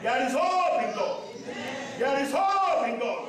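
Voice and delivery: slow, emphatic shout on hope; preached shout. Acted. Preacher calling hope to the church. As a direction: cry it out to the congregation.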